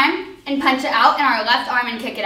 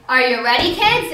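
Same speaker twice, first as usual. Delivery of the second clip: SpongeBob captain call. Retold or imitated. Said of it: "from SpongeBob".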